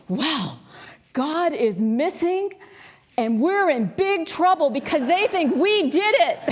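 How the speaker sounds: mock alarm from a boy while the teller cracks up; boy warning his twin while the teller laughs; panicked boy, laughing.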